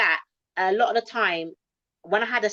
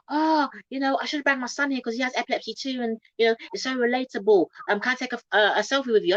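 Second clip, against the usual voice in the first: lightly voiced Welsh lady, raised pitch; a hint of a kind Welsh fan, pitched up; higher Welsh lady; 5 semitones higher than usual. Fan asking the comedian for a selfie, lightly raised voice. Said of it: "I can't do Welsh accent".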